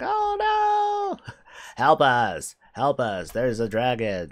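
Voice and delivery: high shrieking mock panic; panicked goblins. Mock goblins screaming for help against a dragon. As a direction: squeal like terrified townsfolk.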